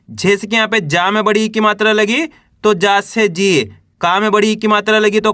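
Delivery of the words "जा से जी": long falling ee in जी; drawn-out syllable. Shown as a demonstration. Teacher giving an example of the vowel sign, जी drawn out. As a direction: stretch out the vowel of जी. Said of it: "खींच के इसका उच्चारण करना है".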